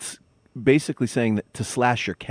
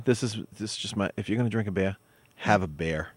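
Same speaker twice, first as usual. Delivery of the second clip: Boston accent; 2 semitones lower, 6 dB quieter than usual. Real, not acted. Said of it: "A bear or a beer?".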